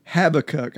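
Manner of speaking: Habakkuk said HAB-uh-kuk, first syllable stressed; weight on HAB in Habakkuk, falling to a short kuk; preferred pronunciation. Shown as a demonstration. Cohost giving his preference, Habakkuk said HAB-uh-kuk. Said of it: "I prefer".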